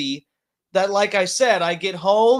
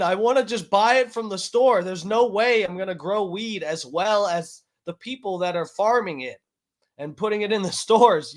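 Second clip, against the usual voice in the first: sarcastic reply; 3 semitones higher than usual. Pretend.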